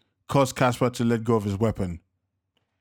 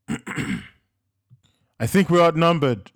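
slow, loud, higher shout; yelled, drawn out; 6 semitones higher, 5 dB louder, much slower than usual. A narrator's reading. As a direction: stretch the words as a yell. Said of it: "Joseph yelled back".

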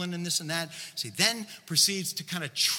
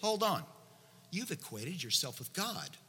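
acted incredulous objection; 2 semitones higher than usual. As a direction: object in mild mock disbelief. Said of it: "the next thought of the religious leaders was probably something like this".

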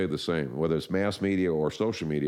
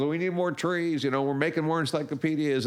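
hammed-up excitement; 11 semitones higher than usual. Salesman calling for trees, hammed-up glee. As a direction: savor the boom like a cartoon tycoon. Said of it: "And he goes".

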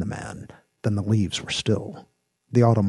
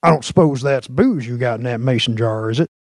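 lawman Jinx, challenging; 5 semitones higher, 6 dB louder than usual. A narrator's reading. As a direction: question a suspect with swaggering authority.

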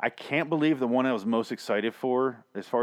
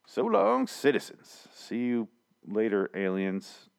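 sign-off voice; slower than usual. Acted. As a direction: swoop up for the farewell. Sign-off catchphrase.

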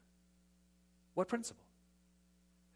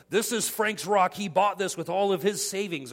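mock boastful; 3 semitones higher, 6 dB louder than usual. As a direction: puff it up like a proud owner. Mocking boastful plaque, louder.

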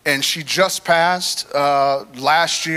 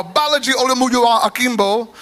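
"Abalaji Olumuyiwa Akimbo" retried higher, in a light Nigerian lilt; his best Nigerian accent; 5 semitones higher than usual. Shown as a demonstration. After the congregation's "maybe", he retries the name in a mock Nigerian accent. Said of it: "that's the best accent I got".

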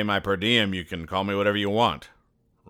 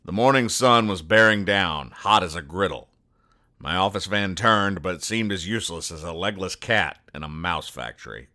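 noir detective. Acted. Noir private eye narration.

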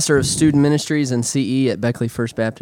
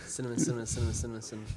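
fast tongue twister; 2 semitones lower, 15 dB quieter, faster than usual. Shown as a demonstration. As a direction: rattle off cinnamon quickly. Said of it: "Say cinnamon five times really fast".

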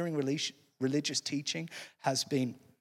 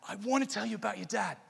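quick, higher imitated Australian accent; 4 semitones higher, faster than usual. Pelican with news for Nemo, imitated Australian accent. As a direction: lightly do an Australian pelican, hurried. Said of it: "to hear an Australian accent".

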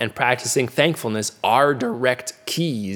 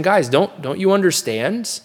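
higher, pleading questions as Jesus; gentle rebuke as Jesus; 3 semitones higher than usual. Acted. Preacher voicing Jesus gently questioning disciples, pleading rebuke. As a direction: gently press the disciples to see it. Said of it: "but he's saying".

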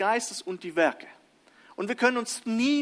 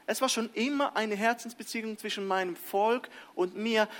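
a light touch of God speaking; 3 semitones higher, 4 dB quieter than usual. Retold or imitated. God telling His people, lightly voiced. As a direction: lightly voice God's tender words. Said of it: "will Paulus sagen".

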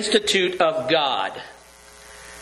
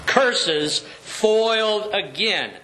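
slow hammed-up cartoon villain curse; a hint of melodrama villain; sputtering foiled villain; slower than usual. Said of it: "would always say this to Dudley Do-Right".

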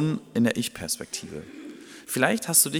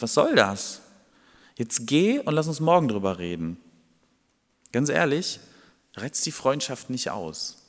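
indignant friend. Acted. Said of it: "der Freund, bei dem gerade angeklopft wurde".

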